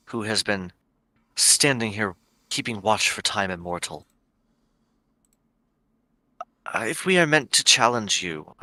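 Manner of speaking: measured, courteous plea with careful pauses; respectful formal address. Acted. Adventurer assures the ancient guardian of respect, measured and formal.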